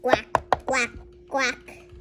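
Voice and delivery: short, separate duck quacks; duck quacking. Pretend. Duck loose by the food truck, quacking. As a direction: quack like a duck in sharp bursts. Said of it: "It's a duck on the loose".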